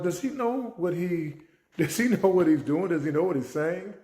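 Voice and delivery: can't believe what he's hearing; stunned teacher asking himself; shocked disbelief. Retold or imitated. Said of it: "I was shocked".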